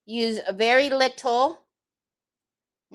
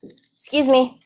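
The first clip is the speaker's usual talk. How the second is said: louder, sharp excuse me; exasperated shout; 5 dB louder than usual. Real, not acted. To Troy the noisy bird, a loud exasperated excuse me. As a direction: raise the voice to be heard over him. Third time asking the bird.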